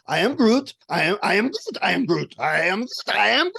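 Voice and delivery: mock-explaining with varied intonation. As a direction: make the same few words sound like instructions. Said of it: "as if I was really explaining".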